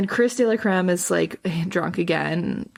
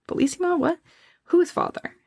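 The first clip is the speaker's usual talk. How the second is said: higher, stunned questions; shocked confusion; 10 semitones higher than usual. Retold or imitated. Retelling a girl's shock at a family secret, high and stunned. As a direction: jump up in pitch, baffled. Voicing Tukey's shocked reaction.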